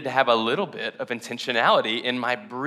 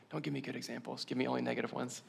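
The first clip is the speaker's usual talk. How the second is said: joking; 14 dB quieter, faster than usual. Real, not acted. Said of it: "I'm just kidding".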